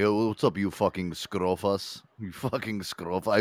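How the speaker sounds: slow, lightly put-on Greek accent; lazy mock Greek greeting; mock Greek guy. Friend mocking Greek people in a slow put-on Greek accent. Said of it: "When I think of Greek people, I always think".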